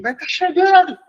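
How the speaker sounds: high-pitched, hammed-up madman shout; mock crazed yelling. Teacher imagines himself yelling at students before the exam, mock frantic shouting. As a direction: yell like a lunatic, as a joke. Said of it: "a gente gritando aqui igual um maluco".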